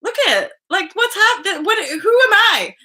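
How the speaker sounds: high-pitched doting disbelief; squeal, amazed at your own adoration; giddy high squeak; giddy gushing. Real, not acted. Gushing over photo, amazed at herself.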